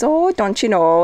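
lightly mimicked Minnesotan lilt; Minnesota accent. Host showing how the accent sounded, mock Minnesota accent. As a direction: put on a bit of Minnesota accent. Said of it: "like, a Minnesota accent".

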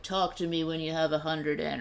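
squeaky Carrot Top voice; a lightly voiced helium guy. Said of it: "Carrot Top on Helium".

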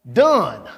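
"done" set apart and punched; pause, then land firmly on "done"; emphatic, falling "done"; stress on DONE. Shown as a demonstration. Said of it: "with the emphasis on".

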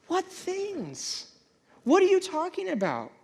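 high, baffled mock whine; mock confusion. Reader baffled by a vague verse, mock confusion. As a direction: play the confused reader, exaggerated. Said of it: "you're like".

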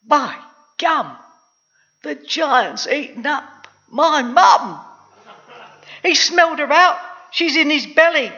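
put-on high, loud, wailing boy; horrified cry. A narrator's reading. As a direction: draw out the shock, then cry it out. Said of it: "Jack cried".

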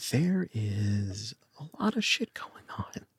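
hushed strain. Acted. Overwhelmed child answers parents.

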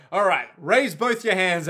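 hold-up command. Acted. Acted hold-up order.

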